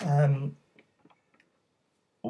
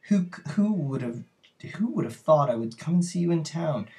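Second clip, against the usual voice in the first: voiced country girl; 6 semitones higher, 5 dB louder than usual. Reads the country girl's line.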